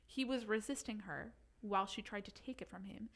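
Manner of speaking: put-on light Irish accent reading. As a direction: keep the Irish lilt going. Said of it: "Your accent? I think it sounds great".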